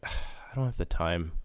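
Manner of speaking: retold tired excuse; weary refusal. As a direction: sigh it out, imitating a reluctant spouse. Retold wife's weary refusal after sigh.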